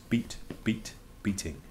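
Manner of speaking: soft echo of a drum; whispered, dying off to nothing; whispered drumbeat. Acted. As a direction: whisper the beats, fading away. Echoing the drum sounds of poem.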